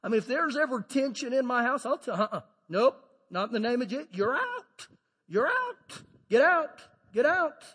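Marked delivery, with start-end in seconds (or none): 2.2-7.6 commanding eviction. Retold or imitated. Preacher evicting tension from house.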